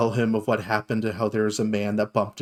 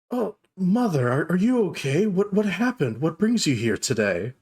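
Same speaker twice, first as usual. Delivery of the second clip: higher-pitched, concerned son's voice; Geralt; 5 semitones higher than usual. Acted. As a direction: stammer out worry for your mother. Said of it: "you see Geralt inside. He goes".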